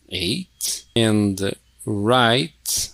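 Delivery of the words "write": "right" starting straight on the R; silent W. Shown as a demonstration. Teacher checking silent-letter answers, silent W in "right". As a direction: say "right" with no W sound.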